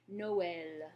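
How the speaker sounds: Noël confirmed, vowels apart; Noël, no and el separate; French Noël. Shown as a demonstration. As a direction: repeat Noël for the learner. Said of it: "to pronounce Noël".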